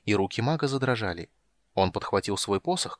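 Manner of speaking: ordinary delivery, nothing marked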